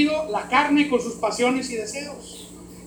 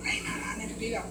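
hushed repeating to oneself; murmured repeat; 2 semitones lower, 14 dB quieter than usual. Shown as a demonstration. Believer musing on the verse, murmured. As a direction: murmur it softly to yourself. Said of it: "empiezas a repetir".

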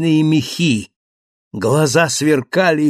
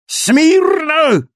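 a sharp, much higher shouted command; shouted order; 5 dB louder than usual. Acted. Thenardier shouts at his wife to stay put, a sharp high yell. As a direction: bark it at your wife to freeze. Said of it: "закричал он жене".

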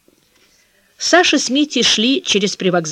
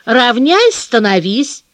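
gentle coaxing command; 2 semitones higher, 3 dB louder, slower than usual. Shown as a demonstration. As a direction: coax it kindly. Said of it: "ласковым, почти просительным голосом".

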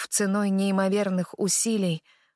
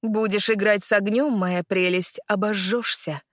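cold. Acted. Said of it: "произносит холодно".

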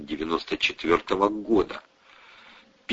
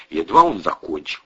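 ordinary delivery, nothing marked

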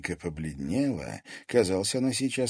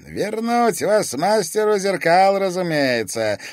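slow, higher and louder mockery; mocking; 12 semitones higher, 10 dB louder than usual. A narrator's reading. Police chief to the captured girl, mocking. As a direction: drawl the answer with scorn. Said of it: "насмешливо ответил полицмейстер".

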